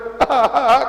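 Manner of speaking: short burst of put-on laughter; hammed-up delighted laugh; acted happy laugh. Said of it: "Ketawa orang itu".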